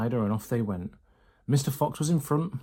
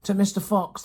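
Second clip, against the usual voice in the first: toast shout; 8 semitones higher than usual. A narrator's reading. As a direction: raise the glass and shout it. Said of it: "they all shouted".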